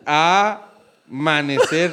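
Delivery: amanecer slowly, A set apart before manecer; AAA-manecer, slow quiz hint; stress on A. Shown as a demonstration. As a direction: lean on the first A of amanecer. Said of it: "¿Cuál es la sílaba tónica".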